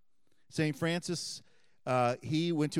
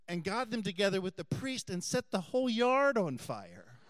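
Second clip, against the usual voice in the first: laughing; 6 semitones higher than usual. Real, not acted.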